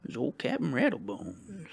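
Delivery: lightly voiced old pirate; a hint of a pirate captain. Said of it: "my old pirate voice".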